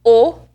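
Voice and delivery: "O" tight and rounded, no glide; closed O. Shown as a demonstration. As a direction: isolate a closed Italian "O". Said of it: "While the closed version is a connector".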